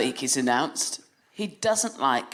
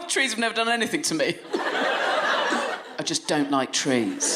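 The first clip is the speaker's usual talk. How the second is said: put-on flipping toddler. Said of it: "then he flipped and went".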